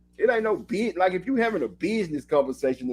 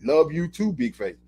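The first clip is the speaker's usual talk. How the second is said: casual shorthand. Shown as a demonstration. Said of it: "or I might say".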